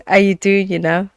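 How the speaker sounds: put-on quoting an old song in a Jamaican accent; lightly put-on Jamaican lilt. Guest quotes an old Jamaican song to the panel, imitated Jamaican accent. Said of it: "it's in a Jamaican accent".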